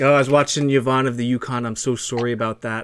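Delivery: light mock Canadian accent; a hint of a hammed-up Canadian; overdone Canadian impression. Teasing his Canadian mod Sal, in a mildly overdone Canadian accent. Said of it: "I just overdo it for him".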